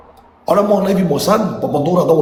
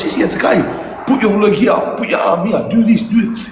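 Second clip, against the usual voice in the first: put-on a boy calling out climbing tips to his sister; son calling out; 4 semitones higher than usual. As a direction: shout encouragement up the wall.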